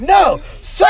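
high, loud mock order; mock command. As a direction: imitate a medic shouting him to a halt. Retelling medics stopping him.

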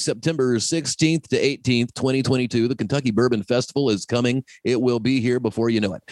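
put-on old-time radio announcer, lightly done; 1920s radio voice. Shown as a demonstration. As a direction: announce it like a vintage radio host. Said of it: "my nineteen twenties radio voice".

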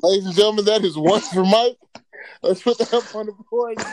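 loud mock announcer; hammed-up game show host. Mock announcer scoring a point.

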